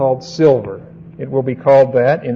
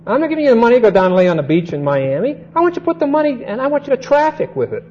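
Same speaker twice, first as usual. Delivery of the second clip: higher, emphatic master giving orders to a servant; master's charge; 4 semitones higher, faster than usual. Retold or imitated. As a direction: preach it as the master entrusting his money. Master handing servant the money.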